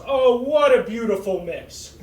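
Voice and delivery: mock gushing compliment; admiring stranger. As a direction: coo it like a charmed stranger. Guy admiring his looks.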